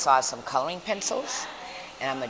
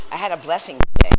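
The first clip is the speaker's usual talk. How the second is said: excited announcement; 16 dB louder, faster than usual. Real, not acted. Excited news to viewers.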